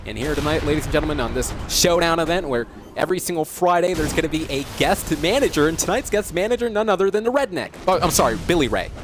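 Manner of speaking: steady game-show commentary; sportscaster explaining rules over live play; play-by-play announcer. Acted. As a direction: call the action as it happens. Calls the match live.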